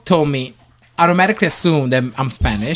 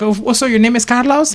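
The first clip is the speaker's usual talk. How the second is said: imitating a caller; 9 semitones higher, 4 dB louder than usual. Mimicking a caller.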